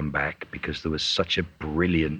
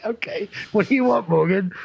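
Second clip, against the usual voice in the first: high, laughing put-on voice of a bored clerk; union clerk voice; 13 semitones higher, 3 dB louder than usual. Mimicking the union clerk on the phone, high and laughing. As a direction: squeak it out, cracking up as the clerk. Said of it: "he calls the union".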